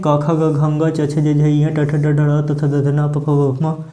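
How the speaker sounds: slow, even run through the consonants; alphabet recitation. Shown as a demonstration. Teacher recites the letters as pupils read them, steady listing. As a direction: chant the letters like a classroom alphabet drill. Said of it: "अब आप जैसे पढ़ते हैं".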